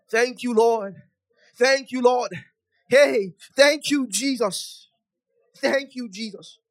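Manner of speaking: high, drawn-out thanks easing off in volume; prayer of thanks. Real, not acted. Preacher thanking the Lord as prayer closes, high sustained pleading thanks. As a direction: let the fervent prayer subside gradually.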